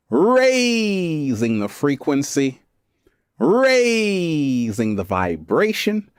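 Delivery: stretched-out slow mystic chant; slow incantation. Acted. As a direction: draw each word out like a ritual. Energy ritual chant.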